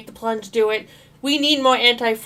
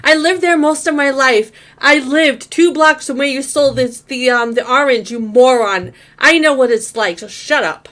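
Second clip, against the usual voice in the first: loud, heated mock telling-off; indignant retort; 4 dB louder than usual. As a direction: fire back at him like an offended Brooklyn local. Acts out angry retort to streamer.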